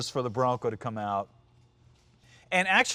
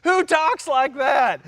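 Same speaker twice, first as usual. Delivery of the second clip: high, loud, drawn-out disbelief; incredulous outburst; 11 semitones higher, 5 dB louder, slower than usual. Real, not acted. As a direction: protest it loudly with the pitch way up. Incredulous at the commercial's narrator.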